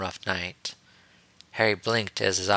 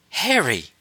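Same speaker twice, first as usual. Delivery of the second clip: high, loud exclamation of a name; shocked gasp; 8 semitones higher, 5 dB louder than usual. A narrator's reading. Ahsoka to Harry after his insult, shocked gasp. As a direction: cry out in scandalised shock. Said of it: "Ahsoka gasped".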